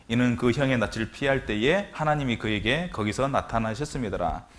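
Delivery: slow, measured Bible reading; scripture reading. Acted. Preacher reading Genesis to the congregation, measured. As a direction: read each verse deliberately.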